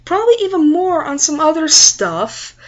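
put-on high-pitched, aggrieved teen demand; selfish teenage protest. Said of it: "teenage slash selfish part of me thinks".

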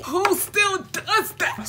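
high, drawn-out squeal of delight; touched gushing. Real, not acted. Gushing over being given flowers.

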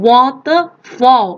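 "waterfall" drawn out slowly, syllable by syllable; careful pronunciation demo. Shown as a demonstration. Teacher telling pupils to pronounce it well, careful slow demo. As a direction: sound out "waterfall" slowly and clearly, water then fall. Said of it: "ออกเสียงให้ดีนะคะ".

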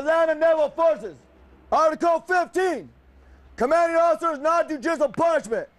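shouted rule reading; military officer. Real, not acted. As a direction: proclaim the rules like a drill sergeant. Drill instructor reading rules aloud.

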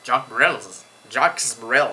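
put-on British accent. Shown as a demonstration. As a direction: try the name in a mock British accent. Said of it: "c'est mon accent, euh, british". (accent britannique feint)

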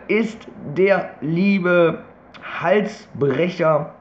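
slow, careful speech around braces; words shaped around a new brace; talking with braces. Real, not acted. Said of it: "das nervt grad ein bisschen mit der Zahnspange beim Reden".

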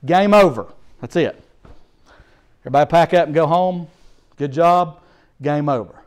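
lightly voiced official ending the game; a hint of an umpire's call. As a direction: announce it's over, brisk. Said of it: "And they said".

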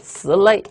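slay drawn out as Chinese 词类, two slow syllables; sound-alike mnemonic. Shown as a demonstration. Teacher gives students a memory trick, 词类 drawn out as a sound-alike. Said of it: "有个谐音记忆法".

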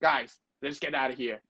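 quick, slurred, excited English; fast mumbled American movie line. Retold or imitated. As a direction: blurt it like a movie hero sensing danger. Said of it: "ด้วยสีหน้าด้วยแบบ นึกออกปะ ความตื่นเต้น".

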